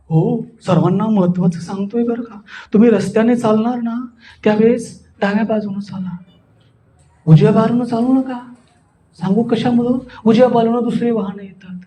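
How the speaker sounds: even, composed advice; calm. Shown as a demonstration. Speaker advises the class on road safety, calm. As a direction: explain patiently without any excitement. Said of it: "शांत रसामध्ये".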